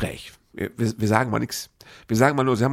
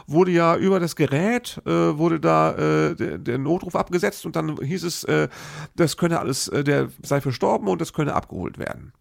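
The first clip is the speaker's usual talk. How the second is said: higher, halting official explanation; mock clerk explaining; 4 semitones higher than usual. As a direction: explain it like a flustered call-centre clerk. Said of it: "sagt er zu mir". (stockend erklärender Sachbearbeiter, höher)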